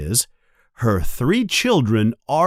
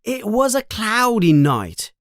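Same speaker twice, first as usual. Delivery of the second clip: Ron voice; 7 semitones higher than usual. A narrator's reading.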